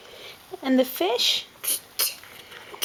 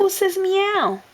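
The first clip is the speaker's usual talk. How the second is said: slow; 6 semitones higher, slower than usual. Real, not acted. Parent asks toddler, slow.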